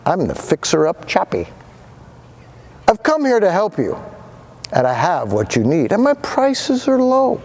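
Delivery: high showman pitch, lightly voiced; a hint of a fast-talking pitchman; keen salesman. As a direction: sell it like a smooth huckster. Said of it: "in a voice clear and keen".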